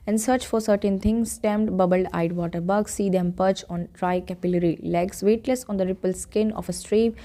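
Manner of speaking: measured recital of a short nature poem; poem reading. Acted. Teacher reading the poem to the class, lightly recited. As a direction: read the verses out to the class.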